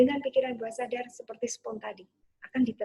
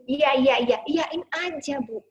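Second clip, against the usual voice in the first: calm, repeated reassurance to the little one; gentle mother comforting her child; soothing mother; 4 dB louder than usual. Shown as a demonstration. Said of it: "Pas masih nangis gitu".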